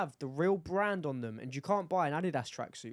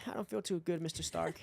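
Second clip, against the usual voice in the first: put-on Tom Holland American accent; 4 dB quieter than usual. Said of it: "such a Tom Hollandy vibe".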